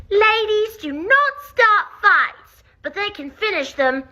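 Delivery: put-on high, prim little-girl voice with a British accent; Marie. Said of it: "I'm gonna pitch my voice up higher, be younger".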